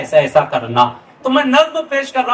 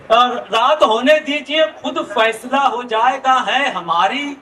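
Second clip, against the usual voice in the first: stately nazm recitation; 3 semitones higher than usual. Acted. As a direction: recite each line with weight. Ghazal verses recited.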